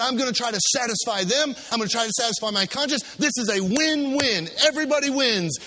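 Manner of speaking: a touch of smug self-persuasion; scheming Pilate. Acted. Pilate pleased with his compromise, mildly smug. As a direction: talk yourself into the deal. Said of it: "And he said".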